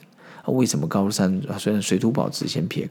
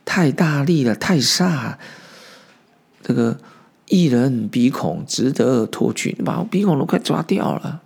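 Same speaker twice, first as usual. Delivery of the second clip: mock pained cry; 3 semitones higher, 3 dB louder than usual. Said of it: "冷痛说".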